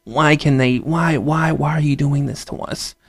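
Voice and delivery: mock-anguished rising whine; upset public. People stirred up by the news, mock-anguished whine. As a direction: play people wringing their hands over the news, mock despair. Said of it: "make you be like".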